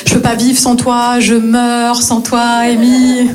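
plainte imitée. Retold or imitated. Imite l'ex suppliant.

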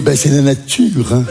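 slow, low matter-of-fact mum; unhurried maternal shrug; mother's excuse. Acted. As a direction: drag it out as an unashamed mother. Mother's excuse, then echoed by son.

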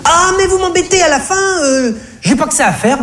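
put-on very high, exasperated shop girl; brazen cashier. Comedian voices the cashier lying brazenly to him, very high. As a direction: snap it back, fed up. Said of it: "mentit-elle effrontément".

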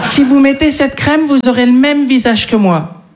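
high, laughing sales pitch; mock the influencer's promise. Quoting influencer selling cream.

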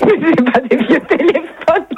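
slow, laughing disbelief. Real, not acted. Laughs at prank offer.

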